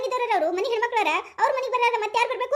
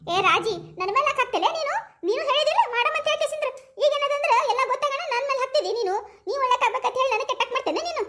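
shrill blaming; 4 semitones higher than usual. Acted. Aunt blames other aunt.

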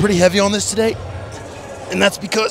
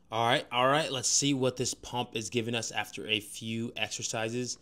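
quiet talk; 3 semitones lower, 8 dB quieter than usual. Real, not acted. Quieter talk after the set.

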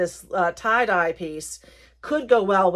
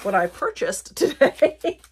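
slow, higher, laughing rephrase; amused self-correction; 4 semitones higher, slower than usual. Real, not acted. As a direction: drag it out and giggle through the end. Playfully rewords after accent slip.

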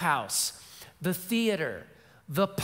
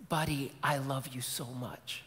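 choked-up father; 4 semitones lower, 4 dB quieter than usual. Retold or imitated. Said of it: "the dad's starting to get choked up".

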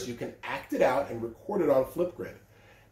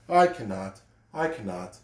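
lower, fading with each I cannot; rusty engine rumbling off, fading out; chugging refusal; 5 semitones lower than usual. A narrator's reading. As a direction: chug it away into silence.

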